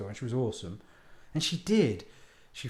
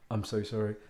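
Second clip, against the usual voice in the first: apologetic lady; 5 semitones lower than usual. Retold or imitated. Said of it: "the lady on the phone's going".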